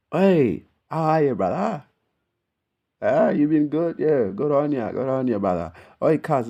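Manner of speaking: a loud, high, overdone Aussie greeting; hammed-up Aussie accent. Mocking how an Aussie would greet him, hammed-up Aussie accent. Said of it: "if I sounded like some".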